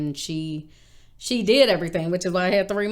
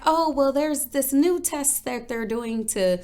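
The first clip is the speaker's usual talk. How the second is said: imitating mom; 6 semitones higher than usual. Mom inventing a cover story.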